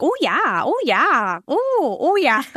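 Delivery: put-on sing-song Minnesota accent with big pitch swoops. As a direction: imitate a coworker's quaint Minnesota accent. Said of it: "I think she was from Minnesota".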